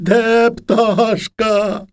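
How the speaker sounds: put-on high, drawn-out child's shout; child's cry. A narrator's reading. Boy behind mother at the haymaking, crying out. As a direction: cry it out slowly on a high held pitch. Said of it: "та й кричить".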